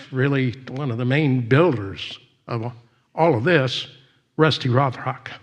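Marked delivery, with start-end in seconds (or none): none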